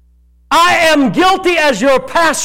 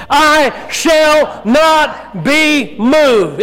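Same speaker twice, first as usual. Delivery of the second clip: said like you mean it; 2 semitones higher, much slower than usual. Shown as a demonstration. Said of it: "say it like you mean it".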